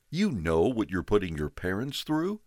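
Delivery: put-on father scolding the boy at the door, sharply. A narrator's reading.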